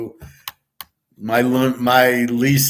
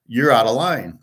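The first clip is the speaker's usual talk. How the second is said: level, conversational rebuke; firm, not yelling. Shown as a demonstration. Employee rebuking a yelling treasurer, firm but not yelling. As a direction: say it plainly without raising your voice. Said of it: "Not yelling, just how I'm talking now".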